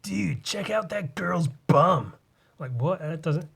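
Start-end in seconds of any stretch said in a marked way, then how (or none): 0.0-2.1 whispered mock American dude voice; whispered mock American bro. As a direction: hush it like a leering frat boy. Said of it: "sounds like they're saying it to be funny".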